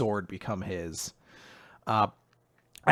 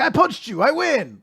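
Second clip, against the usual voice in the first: high, louder, cartoonish hero shout; over-excited, pitched-up boast; mock victory cry; 13 semitones higher, 5 dB louder than usual. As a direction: crow it like a simple-minded shonen hero. Mocks hero's simple victory cry.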